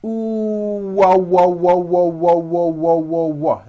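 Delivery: ooh into repeated wah, lips opening from rounded; W drill. Shown as a demonstration. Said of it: "like this".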